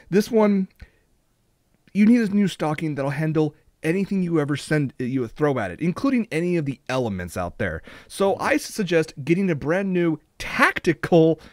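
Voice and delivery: deadpan infomercial spiel; mock ad read. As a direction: sell it like a TV commercial. Mock ad pitch continues.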